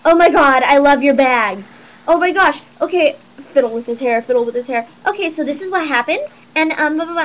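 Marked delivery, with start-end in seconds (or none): 0.1-3.2 put-on loud, girly gushing over a handbag; loud put-on fawning; imitated gushing goth boy. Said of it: "this is exactly what it sounded like". 5.1-7.2 mock gossipy chatter, rising at the ends; put-on chatty retelling; imitated girly chatter. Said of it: "this is exactly what it sounded like".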